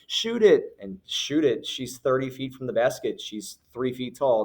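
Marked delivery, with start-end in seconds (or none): 0.1-0.8 high, louder imitated fan shout; crowd yelling. Crowd yelling at a far-off player to shoot, mock shout. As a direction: yell it like a spectator calling out. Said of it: "a chorus of people just started yelling".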